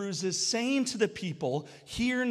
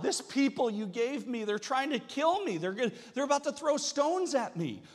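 whining; 6 semitones higher than usual. Retold or imitated. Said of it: "Moses whines to God".

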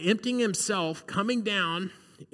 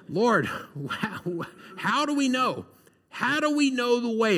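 loud, higher, blunt New Jersey-style questioning; blunt New York Thomas; 6 semitones higher, 3 dB louder than usual. Retold or imitated. Preacher doing Thomas with a New York accent, loud and blunt. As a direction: demand it straight like a New Yorker. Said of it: "Maybe he's from New York or New Jersey".

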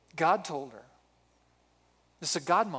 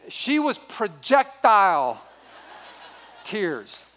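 laughing; 4 dB louder, slower than usual. Real, not acted. Laughing while telling the proposal.

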